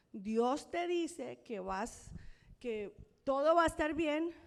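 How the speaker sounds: proclama con fuerza, imitando al pastor; pastor profetizando. Retold or imitated. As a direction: anuncia una profecía ante la iglesia. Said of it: "en su don de profecía, dice". (voz retomada de pastor que profetiza)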